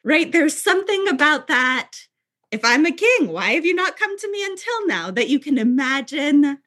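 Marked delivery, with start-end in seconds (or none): 2.5-5.1 imitated Jewish New Yorker, voice lifting high; old New York Jewish accent. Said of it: "tone and accent of a Jewish man".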